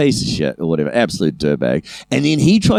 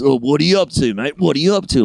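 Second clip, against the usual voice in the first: bullyish; 3 semitones higher than usual. Retold or imitated. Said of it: "Like, quite bullyish".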